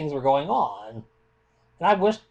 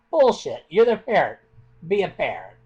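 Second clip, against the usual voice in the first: getting angry; 4 dB louder than usual. Real, not acted. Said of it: "I guess I'm getting a little angry".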